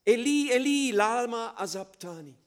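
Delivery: loud, high anguished cry of Eli, Eli. Acted. Preacher voicing Jesus crying out on the cross, loud anguished cry. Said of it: "schrie Jesus laut".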